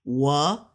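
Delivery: 我 climbing with no dip; careful upward 我 for learners; straight rising tone. Shown as a demonstration. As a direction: send 我 straight up. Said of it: "It'll go straight up".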